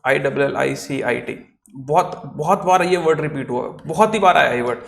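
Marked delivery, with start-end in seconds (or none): 0.1-1.5 letter by letter, spaced out; slow spelling. Shown as a demonstration. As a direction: spell it for the board. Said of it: "मैं यहाँ पे एक word लिखता हूँ".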